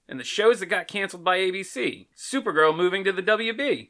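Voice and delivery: announcer read, lively; radio voice. Acted. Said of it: "are you doing it in a radio voice".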